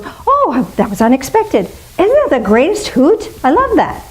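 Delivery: high, delighted little squeal of surprise; imitating a thrilled, surprised friend; delighted gush. Delighted person quoted after kindness.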